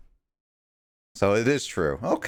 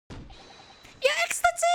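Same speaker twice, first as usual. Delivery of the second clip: very high, slow "Your Excellency!"; high pompous greeting; slower than usual. Acted. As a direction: stretch "Your Excellency!" out grandly. Voicing character's formal greeting.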